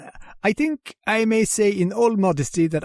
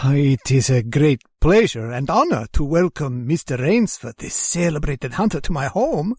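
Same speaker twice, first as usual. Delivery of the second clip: booming, formal host greeting; grand welcome; 2 semitones lower, 4 dB louder than usual. Acted. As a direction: welcome him grandly and loudly.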